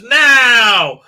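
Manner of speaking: sudden high shouted command; mock shout. Mocking Burnham giving the go command, sudden loud shout. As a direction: bark the order out as a parody.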